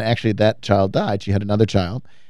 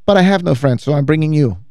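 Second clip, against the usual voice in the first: higher, nicely spoken imitation; cleaning lady impression; 3 semitones higher than usual. Cleaning lady explaining her invitation, high angelic impression. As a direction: imitate her sweetly, pitched up. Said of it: "She says".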